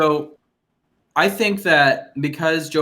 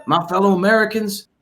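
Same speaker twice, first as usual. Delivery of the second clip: higher-pitched mock presidential address; George W Bush; 4 semitones higher than usual. Shown as a demonstration. Showing cohosts an easy president to imitate, light impression. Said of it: "You can do a George W".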